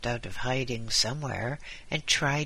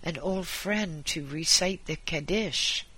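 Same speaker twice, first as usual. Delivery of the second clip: put-on higher-pitched Yiddish-inflected old man; sickbed appeal with a Yiddish lilt; old Jewish husband; 4 semitones higher than usual. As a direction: plead the case as a dying husband.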